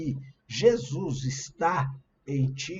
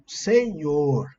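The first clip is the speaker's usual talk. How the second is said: mock shout of address, louder; louder, retold cry for attention; imitated cry; 7 dB louder than usual. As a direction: call it out as a plea, half-shouted.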